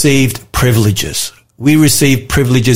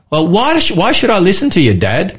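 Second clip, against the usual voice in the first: put-on a higher, faster kid talking back; cheeky child voice; 5 semitones higher than usual. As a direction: play a child questioning Dad. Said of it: "If my children ask me".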